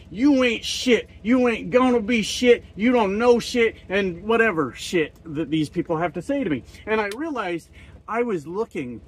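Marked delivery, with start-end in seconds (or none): 0.1-3.8 higher, taunting hater voice; mock put-down from the haters; imitating haters. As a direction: jeer it like a comment troll. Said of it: "I get told".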